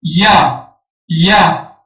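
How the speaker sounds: یا sounded out for learners as "ya"; syllable pronunciation demo. Shown as a demonstration. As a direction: say یا as "ya", y gliding into a.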